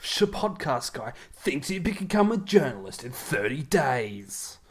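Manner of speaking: drawn-out, punched promo teaser; mock news promo. Podcaster spoofing a current affairs trailer, mock news promo. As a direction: tease it like a TV report, stretching the end.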